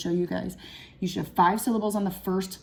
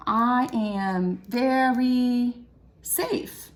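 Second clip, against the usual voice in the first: slow syllable count; much slower than usual. Shown as a demonstration.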